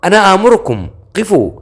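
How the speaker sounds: high-pitched, desperate royal command; acted outcry without full volume; mock shout. A narrator's reading. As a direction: call after fleeing men, pitch climbing high. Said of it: "ركض خلفهم وهو يصيح".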